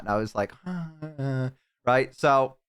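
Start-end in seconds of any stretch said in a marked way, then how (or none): 0.6-1.5 imitated hesitant sigh; reluctant sigh. Streamer retells giving in to his friend, reluctant sigh. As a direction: sigh as if giving in, half-acted.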